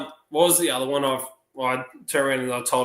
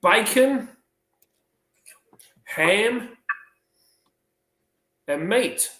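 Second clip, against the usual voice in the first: put-on high little-boy voice, word by word; high-pitched halting child's answer; schoolboy answering; 9 semitones higher, 4 dB louder, much slower than usual. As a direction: answer like a pupil, with long pauses. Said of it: "And Jack goes".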